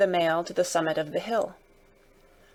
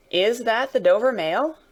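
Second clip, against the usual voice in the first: higher questioning call; 4 semitones higher, 4 dB louder than usual. Acted. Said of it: "a man's voice called from the mist".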